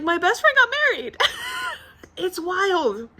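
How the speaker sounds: high, choked-up amazement; emotional disbelief. Real, not acted. Telling viewers her best friend got married, high and overcome. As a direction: voice lifting as the feeling wells up.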